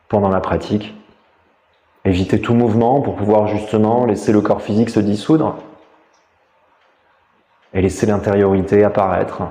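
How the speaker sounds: calm, measured meditation voice with long pauses; guided meditation. Real, not acted. Teacher guiding listeners lying down through a body scan, meditative. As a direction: guide them inward, leaving space between phrases.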